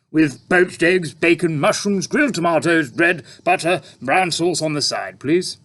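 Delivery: a hungry tramp asking; puzzled tramp. A narrator's reading. Tramp ordering breakfast.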